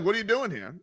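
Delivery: whispered store clerk; hushed, secretive question. Retold or imitated. Store clerk whispering to a browsing shopper. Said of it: "they're like".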